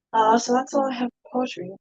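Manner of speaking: breathless after reading aloud; out of breath. Real, not acted. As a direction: talk while catching your breath. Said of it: "trying to catch my breath".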